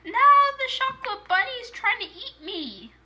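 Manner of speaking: high-pitched play alarm; hammed-up fright, high-voiced; mock panic. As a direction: cry out in pretend distress. Toy attacked in pretend play.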